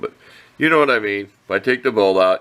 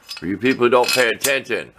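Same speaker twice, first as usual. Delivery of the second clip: dry sarcastic jab. Real, not acted. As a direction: say it with a sarcastic edge. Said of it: "I'm being sarcastic".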